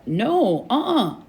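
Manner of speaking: high, swooping repeated denial; alarmed denial. A narrator's reading. Mark keeps shaking his head at Brad, in alarmed denial. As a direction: insist anxiously with pitch way up. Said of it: "cried Mark".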